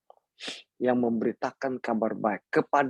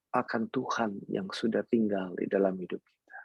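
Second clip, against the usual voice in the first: hushed; 3 semitones lower, 5 dB quieter than usual. Acted. Pastor drops voice on key point.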